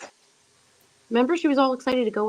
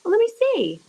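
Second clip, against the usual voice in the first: unvoiced whisper; 13 semitones higher, 4 dB louder than usual. Real, not acted. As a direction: whisper back eagerly. Whispered reply.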